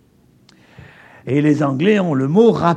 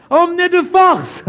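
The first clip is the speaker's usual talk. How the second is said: Emmener de force pitched high and louder; stressed phrase; 11 semitones higher, 4 dB louder than usual. Shown as a demonstration. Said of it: "ce mot pouvait être employé".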